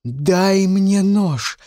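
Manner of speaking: slow, high, loud demand; woman shouting through the window for the knife. Acted. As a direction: yell it out, dragging each word. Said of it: "закричала она".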